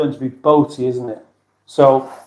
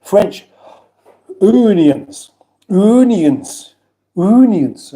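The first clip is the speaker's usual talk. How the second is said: onions in a hammed-up French accent, higher; 5 semitones higher, much slower than usual. Shown as a demonstration. Reading a chat comment, tries onions in a French accent. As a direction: say onions like a Frenchman, oo-nee-ons. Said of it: "Pungent accent".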